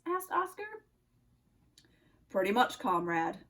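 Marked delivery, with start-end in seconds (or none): 2.3-3.4 put-on low-pitched Russian-accented nutcracker; deep Russian accent, a sentry's challenge. Nutcracker questions Oscar on the tree, low Russian accent. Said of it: "said the Nutcracker".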